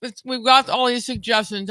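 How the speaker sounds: talking while chewing food; mouth full. Real, not acted. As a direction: speak through a mouthful. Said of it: "I'm chewing food".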